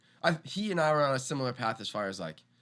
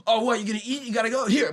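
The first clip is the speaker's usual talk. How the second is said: mock taunt; 10 semitones higher, 5 dB louder, faster than usual. Shoving food at drunk friend.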